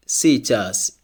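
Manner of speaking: "сейчас" said si-CHAS; unstressed E as I. Shown as a demonstration. Teacher models an example word for learners, "сейчас" as si-CHAS. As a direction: say "сейчас" with ee first, stress on the end. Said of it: "it's pronounced like E".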